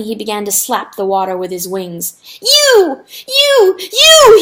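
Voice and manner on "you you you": high, full-force scream. A narrator's reading. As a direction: hurl each word out as a loud scream. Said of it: "he screamed".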